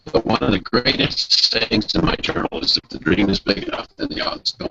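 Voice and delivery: choppy audio cutting out; glitchy robotic call. Real, not acted. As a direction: voice breaking up on the line. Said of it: "your voice is breaking up".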